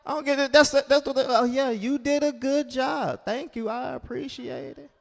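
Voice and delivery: high, indignant sputter. Retold or imitated. Comedian complaining to his date, indignant. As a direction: sputter it in wounded disbelief. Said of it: "I'm like".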